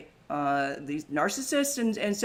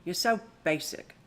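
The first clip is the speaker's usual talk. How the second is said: put-on Anna Delvey accent. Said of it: "That's my accent".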